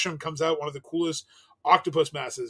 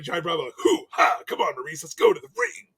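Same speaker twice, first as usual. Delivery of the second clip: Miz as Johnny Bravo; 5 dB louder than usual. Retold or imitated. Miz imitated as Johnny Bravo, cocky, calling to Maurice. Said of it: "Miz is like".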